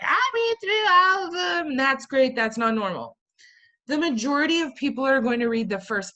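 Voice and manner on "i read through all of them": high, loud boastful protest; hammed-up know-it-all, pitched way up; keen label reader. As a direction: pipe up proudly as the keen one. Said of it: "one of you out there that's like".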